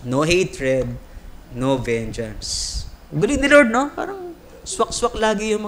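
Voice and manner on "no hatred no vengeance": slow emphatic. Real, not acted. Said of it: "slow emphatic lesson point".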